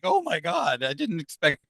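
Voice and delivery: high, startled oh my God that settles back down; stunned oh my God. Retold or imitated. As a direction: retell the shock of hearing the answer. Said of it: "And I'm like".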